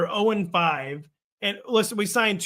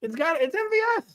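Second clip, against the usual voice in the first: laughing, high and loud; excited; 12 semitones higher, 10 dB louder than usual. Real, not acted. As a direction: blurt it out with a laugh.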